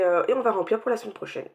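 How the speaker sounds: ordinary talk, nothing marked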